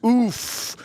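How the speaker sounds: high mock oof; hammed-up quote. Streamer repeats a viewer's reaction, hamming it up. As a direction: toss it out high as a quoted exclamation.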